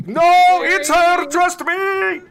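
high, loud, pleading insistence; insistent character voice. Acted. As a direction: push it high and loud, begging to be believed. Player voices her character insisting.

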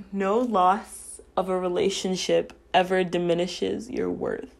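choking up on the last words; getting emotional. Real, not acted. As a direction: voice fading to a near whisper, moved. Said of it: "I'm getting a bit emotional".

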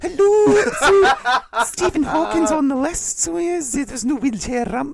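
very high squeaky host, laughing through it; hammed-up breakfast-TV parody; mock TV presenter. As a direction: announce it in a silly high presenter voice. Resumes the Lorraine Kelly presenter voice.

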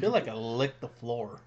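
talking with sour candy in mouth; eating sour candy. Real, not acted. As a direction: mouth puckered from a sour bite. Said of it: "It's so sour".

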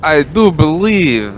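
stately, measured in-character speech; formal noble character voice. Acted. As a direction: speak like a courtly noble.

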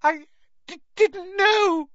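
very high, broken sobbing words; crying out her innocence. A narrator's reading.

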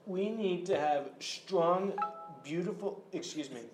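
Trump impression. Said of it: "President Trump here".

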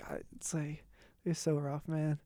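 soft whispered aside; whispering. Real, not acted. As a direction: drop to a whisper. Whispering about Boston accents.

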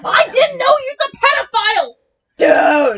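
loud, fast, high protest; defensive yell. Real, not acted. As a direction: shout over the accusation. Shouting back in defence.

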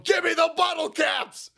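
high, loud mock yell of a furious tax agent; mock-furious IRS agent roaring for bottle caps; hammed-up strangling shout. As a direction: bellow it like you're throttling him. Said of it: "IRS agent strangling him".

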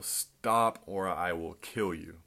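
drawn-out, restrained mock yell. Pastor pretending to threaten a listener, half-hearted yell. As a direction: act out a slow threat without full volume. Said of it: "and I yell".

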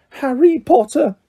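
slow, high, awed little creature; high-pitched creature. A narrator's reading. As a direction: pipe it up high and draw it out. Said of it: "in a high-pitched voice".

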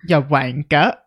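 lightly mocked British accent; bad British accent. Podcaster defending their British impression, badly faked British accent. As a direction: toss it off in fake British. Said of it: "the worst British accent I've ever heard".

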